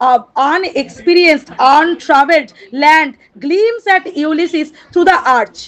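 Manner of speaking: drawn-out recitation of the verse; slow poem reading. Shown as a demonstration. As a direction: read the line very slowly, savouring each word. Reads poem line aloud.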